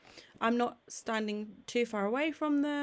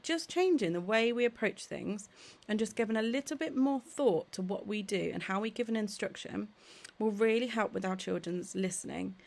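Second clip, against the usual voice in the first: ordinary delivery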